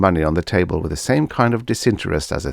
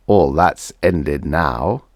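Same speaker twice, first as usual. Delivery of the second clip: slow, reassuring doctor; 4 dB louder, much slower than usual. Acted. The doctor assures the grieving widower, slow and reassuring. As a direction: soothe him slowly, word by word. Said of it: "the doctor assured him".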